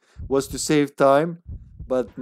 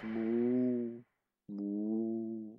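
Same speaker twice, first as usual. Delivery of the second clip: zombie moan; 2 semitones lower, 11 dB quieter than usual. Retold or imitated. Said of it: "Best zombie sounds ever".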